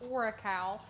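"Oracal" ending in "cow"; company pronunciation. Real, not acted. Naming the pink vinyl brand, "Oracal" ending like "cow". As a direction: say "Oracal" with a last syllable like "kow". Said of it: "how y'all say that".

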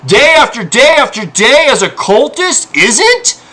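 rising frustration; heated outrage; building anger. Real, not acted. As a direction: push harder toward the end. Heated rant about harassers.

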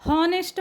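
हॉनेस्ट with the H sounded; wrong pronunciation. Shown as a demonstration. Teacher shows the wrong हॉनेस्ट with the H. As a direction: start हॉनेस्ट on a clear H. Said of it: "म्हणत नाही आपण".

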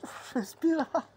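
high, loud protest; loud plea for air. Real, not acted. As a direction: cry out while being smothered by a pet. Smothered by dog, pleading.

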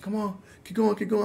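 high-pitched imitation of people egging on; urging onlookers. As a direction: mimic the crowd urging a swimmer on. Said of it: "They were like".

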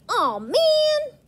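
high, loud frustrated exclaim; frustrated oh man. Shown as a demonstration. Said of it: "Drat is almost like".

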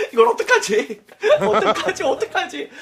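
high, flustered repeated worry; laughing panic. Retold or imitated. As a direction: fret while giggling. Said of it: "하다가". (웃으며 허둥대는 목소리)

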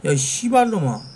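ordinary delivery

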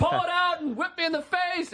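screaming. Retold or imitated. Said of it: "I'm screaming in his ear".

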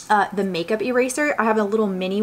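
cloth in front of mouth; slightly muffled by fabric; speaking behind held cloth. Real, not acted. Seen 0: Pink makeup cloth held in front of her mouth while she speaks.

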